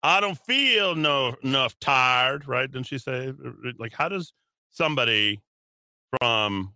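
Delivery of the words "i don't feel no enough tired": slow mock Southern accent; lightly hammed-up Southern accent. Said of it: "has a Southern accent".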